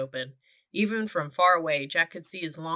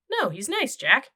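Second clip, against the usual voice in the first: put-on insistent girl; 8 semitones higher, 4 dB louder than usual. A narrator's reading.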